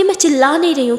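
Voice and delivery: mildly heated protest. Acted. Aditi denying that she is shouting, irritated. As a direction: deny it with some irritation. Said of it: "आप चिल्ला रही हो".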